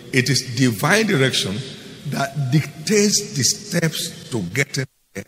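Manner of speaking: divine direction dictates the steps, each phrase drawn out slowly; slow down and lean on every phrase so it sinks in; measured preacher's emphasis on the repeat; slow, weighty restatement. Shown as a demonstration. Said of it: "Listen again".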